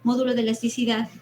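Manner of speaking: módulo hit on MÓ, then de elasticidad run off quickly; stressed módulo. Shown as a demonstration. Teacher to class, modelling módulo with stress on MÓ. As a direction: punch MÓ in módulo and move on fast. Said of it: "lleva acento en la O".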